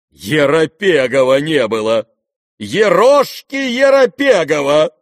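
high, loud indignant cry; exclaimed. A narrator's reading. The general cries out to his son, loud and high. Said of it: "вскричал он".

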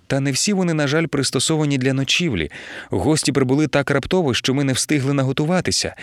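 lightly voiced mother-in-law, begging politely; a humble, fussy plea for one night; pleading mother-in-law. Mother-in-law begging her son-in-law for a favour, pleading.

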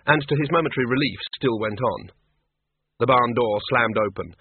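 plain reading voice

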